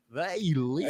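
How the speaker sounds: imitating Dead Pit, an up and down Kentucky lilt; Kentucky drawl. Mimicking Dead Pit for his friend, up and down Kentucky drawl. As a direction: say they live with a sing-song Kentucky drawl. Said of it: "that up and down thing".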